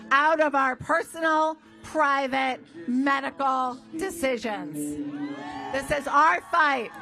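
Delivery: rousing speech to a crowd; rally speech. Real, not acted. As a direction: fire up the crowd.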